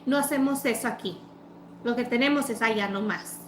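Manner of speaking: mildly dismissive imitation; rude tone. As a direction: brush the customer off, mimicking the clerk. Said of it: "the fucking tone that she was using".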